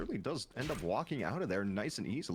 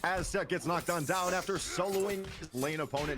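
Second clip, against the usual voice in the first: excited play-by-play; 5 semitones higher than usual. Real, not acted. Live play-by-play call.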